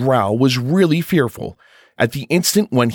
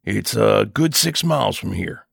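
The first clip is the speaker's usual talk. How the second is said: less harsh. Acted. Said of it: "but not so harshly as at first".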